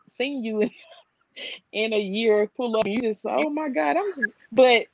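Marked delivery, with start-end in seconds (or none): 3.3-4.3 mock gushing. Mocking mom's delight at visitors.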